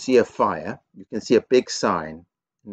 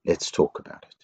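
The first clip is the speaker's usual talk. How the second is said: calm offer; 5 semitones lower, 3 dB quieter than usual. Shown as a demonstration. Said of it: "you can say".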